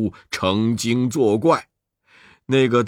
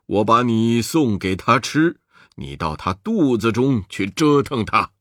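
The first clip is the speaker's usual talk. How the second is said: a lower, easygoing Buddha voice; lightly voiced jolly Buddha, a touch lower; Maitreya voice; 4 semitones lower than usual. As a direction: lay out the plan calmly, like a genial old monk. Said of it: "弥勒佛笑道".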